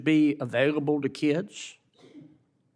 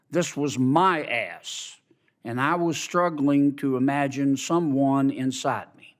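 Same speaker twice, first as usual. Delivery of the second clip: deliberate excerpt reading. Acted. Reads book excerpt aloud.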